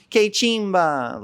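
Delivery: very high, slow mock slang; imitating Medellín women. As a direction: stretch the catchphrase out in a high voice. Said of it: "They use the same slang".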